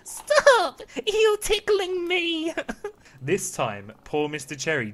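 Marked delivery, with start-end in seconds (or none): 0.0-2.6 very high, loud little squeal; tiny laughing voice. Acted. Piece of wood being planed and tickled, tiny high laughing voice. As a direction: squeal it tiny, slowing on the second phrase. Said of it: "that tiny voice which said, laughing".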